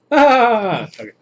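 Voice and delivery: high, loud laughing okay; amused break. Real, not acted. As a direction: crack up while reading. Cracks up mid joke.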